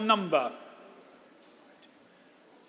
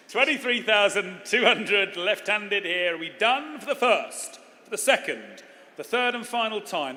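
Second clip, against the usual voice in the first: bright, punchy auction calling; auctioneer. Acted. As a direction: sell it to the room, bid by bid. Auctioneer calling final bids.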